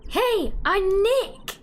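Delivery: slow, high call into the mic; shouted hello so the camera hears. Shown as a demonstration. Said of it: "Maybe I'm not saying it loud enough?".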